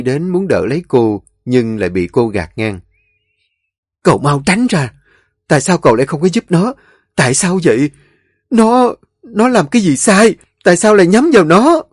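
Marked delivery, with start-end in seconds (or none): 4.0-11.8 high, loud fast reproach; wife angrily confronting her husband; angry accusation. Acted. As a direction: push him away and accuse.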